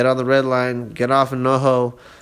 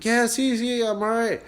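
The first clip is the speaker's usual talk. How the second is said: groggy just-woke-up reply; 10 semitones higher than usual. Retold or imitated. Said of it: "I'm like".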